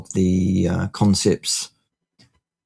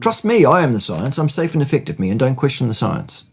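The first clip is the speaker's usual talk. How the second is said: mocking authority; 4 semitones higher than usual. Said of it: "I'm joking".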